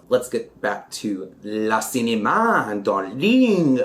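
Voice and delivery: a hint of a diva drawling darling; lightly campy glam host; mock glamorous. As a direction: put on a light film-star air. Faux-glam film host voice.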